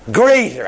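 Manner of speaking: "Greater" punched hard as a word alone; emphatic, free-standing "Greater"; stress on Greater. Shown as a demonstration. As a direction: hit "Greater" firmly, then let it fall. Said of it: "I'm only emphasize that word".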